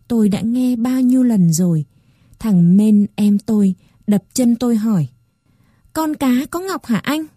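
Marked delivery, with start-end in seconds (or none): 5.9-7.3 lightly voiced small boy, curious; a hint of a little kid's question; young boy asking. A narrator's reading. Little brother asks, child voice. (giọng bé trai hơi cao, tò mò)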